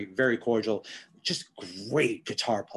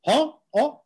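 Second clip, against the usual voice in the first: put-on Boricua accent; 13 semitones higher, 6 dB louder than usual. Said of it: "in his Boricua accent".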